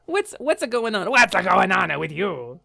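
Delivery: silly goofy voice. Acted. Silly voice greeting.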